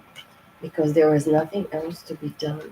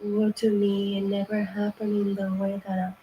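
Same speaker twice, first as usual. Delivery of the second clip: softer, mock self-pity; mock whining; 6 dB quieter than usual. Reader mocking self-pitying listeners, soft and whiny. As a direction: imitate a sulking victim. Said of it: "crying and pretending".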